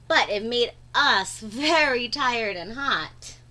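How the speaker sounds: put-on lively read-aloud for young kids; animated storytime voice; story narration. A narrator's reading. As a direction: read the picture book to the class with wide-eyed energy. Reads picture book aloud.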